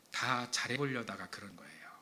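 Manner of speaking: soft confiding whisper. Real, not acted. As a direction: whisper it gently, understanding. Gentle explanation of conflict.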